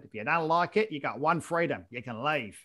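lightly put-on Australian accent. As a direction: imitate an Australian politician. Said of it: "This is my Australian accent".

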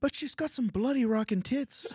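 high-pitched, strained Canadian Kermit voice; Jordan Peterson. Acted. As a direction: argue the case like a Canadian Kermit. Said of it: "he's like a Canadian Kermit".

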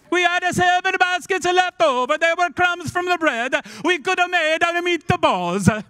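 loud, high, hammed-up Italian; Italian accent. Disciple scolding Peter over forgotten bread, loud Italian accent. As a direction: exclaim it in a big, indignant mock Italian accent. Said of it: "I hear it in Italian".

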